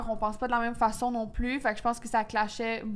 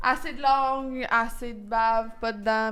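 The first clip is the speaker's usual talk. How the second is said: slow, deliberate rating; slower than usual. Shown as a demonstration. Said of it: "Merci, bonsoir".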